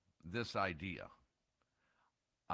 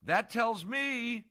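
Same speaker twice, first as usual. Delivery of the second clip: heated emphatic rant; 10 semitones higher, 6 dB louder, slower than usual. Real, not acted. Ranting about unpaid league.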